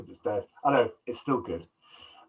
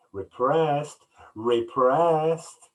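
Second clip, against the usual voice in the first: goading taunt; much slower than usual. Retold or imitated. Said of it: "John Cusack's line when he's goading her".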